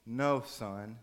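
slow, word-by-word reassurance; calmly insist, spacing out each word; firm, tender parent. Acted. Parent gently insists to upset son.

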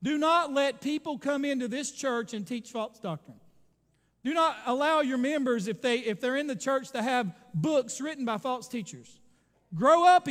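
acted urgent cry, punching the commands loud; imitated crying plea. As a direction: plead at full force, as Paul urging his elders. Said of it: "he's crying and he says".

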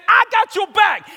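very high, slow shout; loud, drawn-out rallying yell; all-out hyped assurance. Retold or imitated. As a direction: bellow each word to seal the pledge. Climax of friend's rousing assurance.

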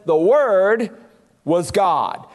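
"The Word" held up, a pause, then "was God" dropped low; emphatic. Retold or imitated. Preacher quoting John to remove any ambiguity, emphatic. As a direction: declare "was God" firmly after a break. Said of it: "John emphatically says".

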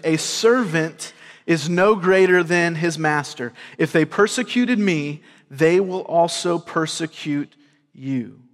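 ordinary talk, nothing marked

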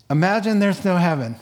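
a touch of dramatic flourish, rising; mock record smash. Friend smashing a singer's record, hammed-up announcement. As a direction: announce the song then smash it. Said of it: "she said".

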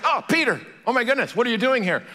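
high-pitched surprised greeting; acted astonishment, words tumbling out quickly; startled kid. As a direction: play a kid amazed at the visitor. Kid startled to find Peter.

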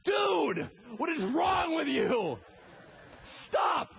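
high, loud exasperated yell; Jesus yelling. Acted. Jesus shouting at Peter to stop, high and loud. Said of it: "And Jesus is like".

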